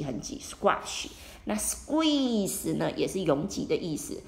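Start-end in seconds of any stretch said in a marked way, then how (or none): 0.0-1.1 "squash" said slowly and low; acting out a tight squeeze; slow, squeezed. Shown as a demonstration. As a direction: drag it out to show tightness. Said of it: "这里是指很挤".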